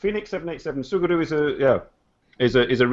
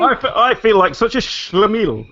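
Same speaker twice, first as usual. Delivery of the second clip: higher, laughing embarrassment; 7 semitones higher than usual. Real, not acted. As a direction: giggle through the self-mockery.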